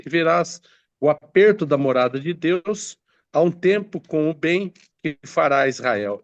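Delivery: measured Bible reading aloud; scripture reading. Acted. Preacher reads prophecy to the congregation, solemn scripture reading. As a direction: read the verse out to the congregation.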